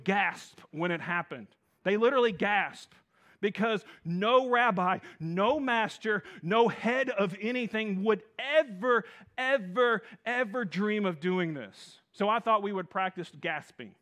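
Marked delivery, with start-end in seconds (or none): 1.8-12.0 building emphasis. Acted.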